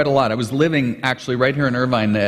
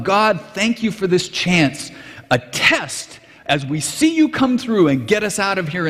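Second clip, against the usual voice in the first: excited prayer; 4 semitones higher than usual. Retold or imitated. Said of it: "'cause he's so excited".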